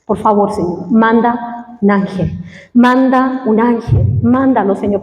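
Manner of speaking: low, slow, pleading prayer; begging for an angel, near tears; tearful plea. Retold or imitated. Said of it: "Yo lloraba ahí en el suelo". (súplica llorosa y lenta)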